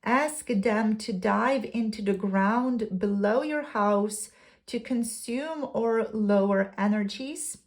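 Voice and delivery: deliberate read-aloud with pauses between phrases; measured card reading. Acted. Reads second card's guidance aloud.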